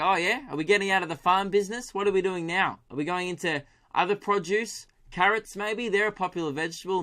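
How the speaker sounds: a hint of a curious mate guessing; eager friend. Friend quizzing the radish farmer.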